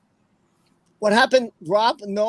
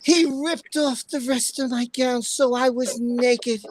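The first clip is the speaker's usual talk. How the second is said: Amber. Acted. Streamer rereading the statement to chat, lightly put-on voice. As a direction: draw out the statement with measured drama. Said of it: "Let me try doing it in an Amber voice".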